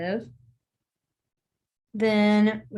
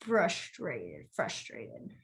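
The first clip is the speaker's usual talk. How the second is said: slower demo; 10 semitones lower, 11 dB quieter, much slower than usual. Shown as a demonstration. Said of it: "I'm trying to go slower".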